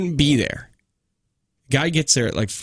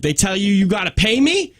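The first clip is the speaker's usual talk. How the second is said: mock indignant question, pitched higher; imitated pissed-off man; 6 semitones higher than usual. Tow driver asking caller about payment, mock indignant. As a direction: retell his irritated challenge, rising at the end. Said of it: "The dude is pissed".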